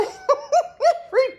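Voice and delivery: loud, high laugh; a sudden bright laugh; high burst of laughter. Real, not acted. Laughing at her own exhaustion.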